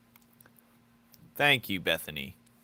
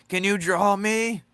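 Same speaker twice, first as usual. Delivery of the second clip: much higher, louder, slow squeaky plea; mimicking a fan; 12 semitones higher, 11 dB louder than usual. Mocking viewers who beg for a drawing, in a squeaky high voice. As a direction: whine it like an eager fan begging. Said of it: "People be like".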